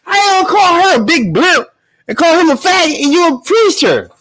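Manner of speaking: high, laughing disbelief; incredulous laughter. Real, not acted. Host reacts to a preacher's insults, laughing in disbelief. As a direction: crack up while protesting, pitch way up. Host cracks up at played argument.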